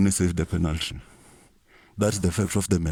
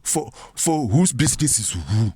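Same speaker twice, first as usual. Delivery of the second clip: high indignant question; 4 semitones higher than usual. Acted. Comic indignant rhetorical question.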